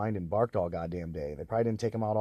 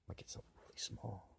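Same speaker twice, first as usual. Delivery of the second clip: whispered threat, very soft; menacing whisper; 22 dB quieter than usual. Acted. Speaker threatening harassers, sinister whisper. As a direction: breathe it like a secret threat.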